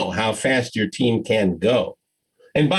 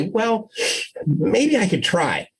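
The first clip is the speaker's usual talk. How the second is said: slow, reluctant caving in; hesitant giving in; 5 semitones higher, slower than usual. Acted. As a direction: give in unwillingly, slowly. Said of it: "not wanting to get, go through this confrontation anymore".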